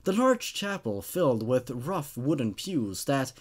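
steady, measured reading of a dark tale; storyteller reading a horror tale aloud; horror story narration. A narrator's reading.

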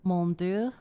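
tentative attempt at a French accent; lightly put-on French pronunciation. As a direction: try the French phrase unsurely. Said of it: "if I said that right".

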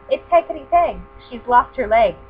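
high and loud, chirpy; blackbird voice. Acted. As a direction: sing it out like a bird. Blackbird explains urgently.

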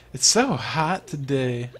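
lightly voiced prissy girl, drawn out. Game girl remarking on weather, lightly prissy voice. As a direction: stretch it out with a hint of prissy girl. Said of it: "prissy girl voice".

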